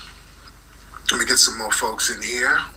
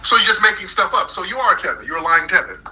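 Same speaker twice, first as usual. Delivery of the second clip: higher-pitched, pouncing on a lie; heated accusation; 5 semitones higher than usual. Real, not acted. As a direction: accuse the caller with real indignation. Accusing caller of lying.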